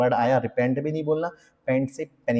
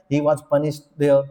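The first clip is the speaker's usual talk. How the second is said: mocking basic English; much slower than usual. Shown as a demonstration. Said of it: "बच्चे से word नहीं है यार".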